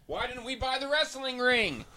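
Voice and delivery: high, soft plaintive wail; mock lament. Host calling to an absent friend, mock lament. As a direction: whine it high and quietly.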